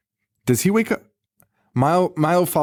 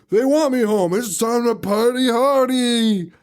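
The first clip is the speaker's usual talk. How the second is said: high, slow singsong menace; lightly voiced unhinged glee; creepy cheerful; 10 semitones higher, slower than usual. Recapping the movie, mock creepy Billy going home.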